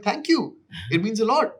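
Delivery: high-pitched gushing gratitude; awkward thanks. Retold or imitated. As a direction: imitate your over-eager self accepting praise. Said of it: "all these awkward run-ins".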